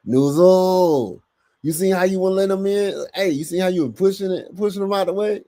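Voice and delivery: high-pitched mock complaint; imagined media questioner. Host mimicking media confronting a player, high mock questioning. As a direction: pitch it way up, imitating a nagging questioner. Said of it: "They don't go to".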